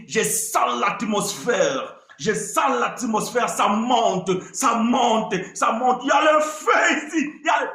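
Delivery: slow building hype, then a shout; hammed-up hype man rising to a yell; mock moderator. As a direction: imitate a moderator working up the crowd. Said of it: "le modérateur dit".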